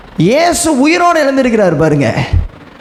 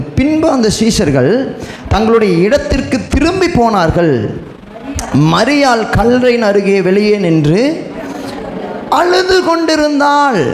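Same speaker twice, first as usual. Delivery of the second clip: raised, declamatory Bible reading; scripture reading. Acted. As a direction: proclaim the verse to a congregation. Reads scripture aloud to congregation.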